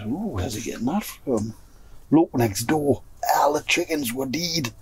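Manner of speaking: soft, hushed, nearly whispered; hushed discovery. Retold or imitated. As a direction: drop to a hush as if spotting trouble. Discovering the dead chickens.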